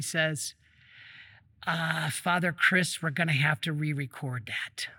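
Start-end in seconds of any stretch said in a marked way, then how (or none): 1.7-4.9 whispering a guilty confession, dropping much softer and lower; sheepish whisper. Retold or imitated. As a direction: confess the botched take under your breath. Cameraman sheepishly admits mistake.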